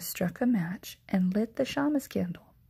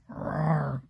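growled roar; 5 semitones lower than usual. Acted. Old Bear answers Baba Braina, low growl. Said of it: "growled Old Bear".

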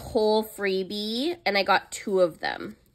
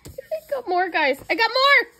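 high, giggly confession; laughing squeal; 13 semitones higher, 3 dB louder than usual. Real, not acted. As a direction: laugh while owning up. Laughing at overbuying.

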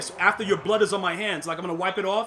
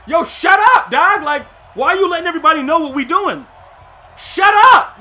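hammed-up shouting trash talk; playful shouted put-down; mock angry shout; 7 semitones higher, 11 dB louder than usual. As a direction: yell it, half joking, at a rival.

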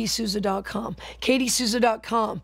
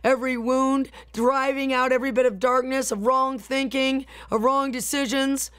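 steady, rhythmic decree prayer; fervent prayer. Acted. Preacher praying healing over online viewers, fervent prayer. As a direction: pray it like a flowing decree.

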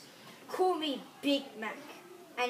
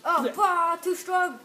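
playful monster growl; 4 semitones higher, 9 dB louder, slower than usual. Acted. Acting a fight, overpowered.

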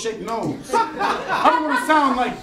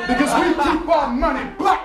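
mock-proud shout; 5 semitones higher, 4 dB louder than usual. Mock-proud boast in a fantasy.

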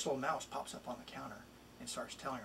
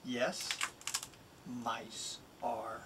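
a pet-store mouse selling himself, lively and bouncy; lightly voiced mouse, playful and persuasive; eager mouse reading his rhyme. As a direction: read it as the little mouse pleading to go home. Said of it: "It's really the mouse speaking".

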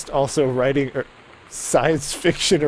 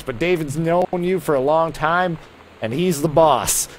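a mild Southern twang, editor scolding a writer; southern accent. Acted. Reading an editor's letter to a writer in a light Southern accent. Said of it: "I'm generating a southern accent".

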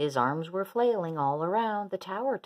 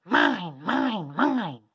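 loud possessive dinosaur roar; 6 dB louder, much slower than usual. A narrator's reading. Dinosaur claiming the toys to no one at all, roaring. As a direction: roar each word separately and forcefully. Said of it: "then he roared to no one at all".

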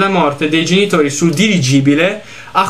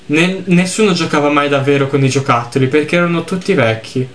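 lettura misurata di un racconto triste; narrazione letta. A narrator's reading. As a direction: leggi la storia con tono composto. Legge ad alta voce il testo del gioco. (narrazione composta, da racconto)

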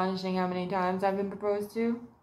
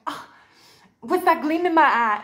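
put-on gushing girl; 7 semitones higher, 9 dB louder than usual. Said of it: "it's like".

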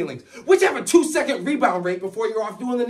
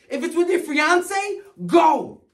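tragic heroine sorrow; 3 semitones higher than usual. Acted. Tearful plea to lover.

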